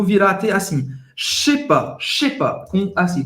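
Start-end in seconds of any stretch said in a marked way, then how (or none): 1.2-2.6 je sais pas run together fast; fast slurred French. Shown as a demonstration. Teacher showing how natives say it fast, slurred. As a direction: clip it into one quick chunk. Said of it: "quando você falar rápido".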